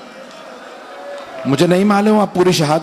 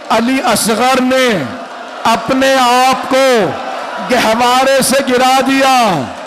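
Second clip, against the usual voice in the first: lamenting recitation building to wail; slower than usual. Acted. Preacher rousing the mourners to weep, rising lament. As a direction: build the lament until it breaks out.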